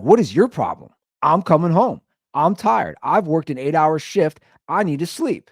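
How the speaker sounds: mildly heated retold complaint; indignant retort. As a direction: throw the question back, fed up. Acting out the roommate's angry retort.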